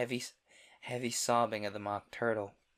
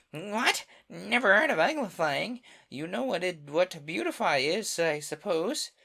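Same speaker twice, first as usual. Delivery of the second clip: high, loud amazement; surprised; 7 semitones higher, 7 dB louder than usual. Acted. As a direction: gasp it out astonished. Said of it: "lifted both its paws in surprise".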